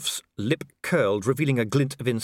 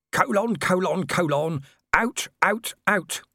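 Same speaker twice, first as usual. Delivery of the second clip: higher-pitched picket chant, only mildly shouted; happy protest shout; 9 semitones higher, 3 dB louder, slower than usual. Acted. Picket waving his placard outside the watch house, happily chanting. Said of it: "shouted Red Shoe happily".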